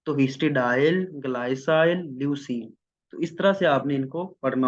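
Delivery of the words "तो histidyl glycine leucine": histidyl drawn out very slowly, glycine rising, leucine falling; histidyl, glycine, leucine read slowly as one name; slow pronunciation demo. Shown as a demonstration. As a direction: stretch out histidyl for students. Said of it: "अगर यहाँ पे होता histidine".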